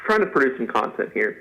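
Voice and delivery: muffled mouth after surgery. Real, not acted. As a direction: talk through a swollen mouth. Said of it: "so if I sound a little, you know, muffled".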